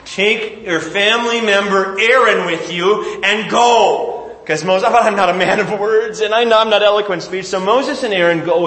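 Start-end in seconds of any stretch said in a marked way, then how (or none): 0.0-4.3 exasperated God. Acted. Angry God giving in. 4.9-7.5 whiny Moses excuse. Acted. Moses protesting again.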